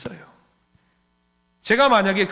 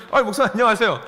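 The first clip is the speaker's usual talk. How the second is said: put-on laughing teen greeting; 6 semitones higher, 4 dB louder, faster than usual. Repeated with laugh.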